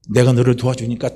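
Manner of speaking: measured, restrained promise of help; calm voice of a helping father; calm assurance. Acted. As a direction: assure steadily without pushing. God calmly offers help.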